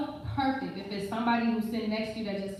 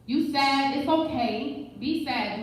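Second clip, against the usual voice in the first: inner God voice; 3 semitones higher, 3 dB louder, slower than usual. Retold or imitated. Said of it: "the God in me was like".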